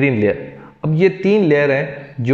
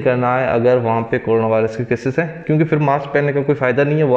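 speaking behind surgical mask; through a face mask. Real, not acted. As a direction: mouth covered by mask. Seen 2: Surgical mask worn over mouth and nose throughout the labelled speech.

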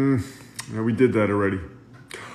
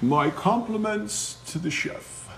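Ratatouille skit line; 7 dB quieter, slower than usual. Acted. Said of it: "And now a scene from Ratatouille".

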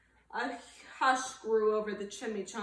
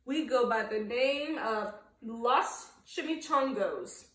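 growling; 3 dB louder than usual. Acted. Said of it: "growled Don Diego".

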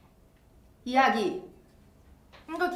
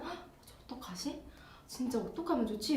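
retold panic; 8 dB quieter than usual. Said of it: "처음에는".

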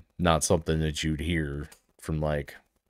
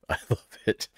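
laughing; faster than usual. Real, not acted. Repeats her delight, laughing.

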